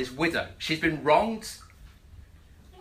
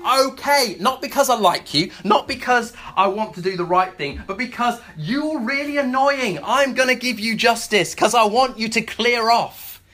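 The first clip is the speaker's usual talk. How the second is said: louder, higher, fed-up giving in; exasperated judge; 6 semitones higher, 4 dB louder than usual. Retold or imitated. The judge gives the nagging widow justice, fed up and loud. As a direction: give in with a loud sigh of annoyance.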